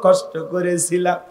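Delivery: wailing, sing-song lament of a hurt mother; a grieving mother's chanted complaint; mother's tearful plea. Acted. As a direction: plead with your son through tears, rising to cries. Mother pleads with ungrateful son.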